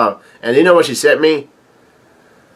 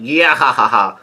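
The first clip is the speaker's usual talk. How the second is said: spelt-out mock guffaw; imitated laugh. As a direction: put on a guest's laugh, lightly. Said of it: "another person starts laughing".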